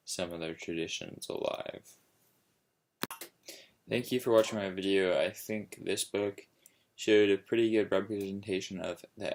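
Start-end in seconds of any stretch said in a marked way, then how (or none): 3.9-5.2 brisk, louder sign-off; quick upbeat thanks. Shown as a demonstration. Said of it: "Sorry for being so monotone".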